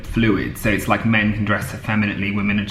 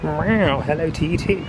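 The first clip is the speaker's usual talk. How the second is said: talking to a cat; 6 semitones higher than usual. Real, not acted. Cat responds, greeting it.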